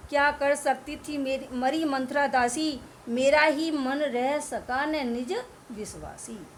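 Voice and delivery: slow, measured verse recital; poem recitation. Acted. Teacher reciting the night scene to students, slow verse. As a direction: read the lines like a solemn poem.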